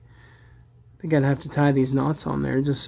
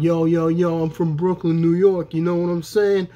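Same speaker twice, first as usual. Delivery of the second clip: put-on Brooklyn accent; 2 semitones higher than usual. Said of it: "Raphael was super Brooklyn".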